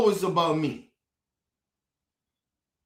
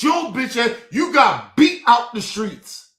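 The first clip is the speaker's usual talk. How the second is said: angry shout; 3 semitones higher, 5 dB louder than usual. Real, not acted. Angry rant at critics.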